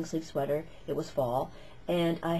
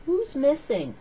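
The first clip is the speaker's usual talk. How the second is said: higher, puzzled teacher voice; a teacher calling the roll, puzzled; teacher asking; 8 semitones higher, 5 dB louder than usual. Retold or imitated. Teacher taking attendance asks the class, lightly mimicked. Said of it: "You could hear him say through the cracked open window".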